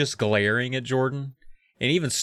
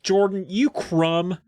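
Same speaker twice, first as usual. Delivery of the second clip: slow, higher-pitched insult; mock scolding; 5 semitones higher, slower than usual. Nicole delivers a weird insult to Jordan, mock scolding. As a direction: draw out the insult with light indignation.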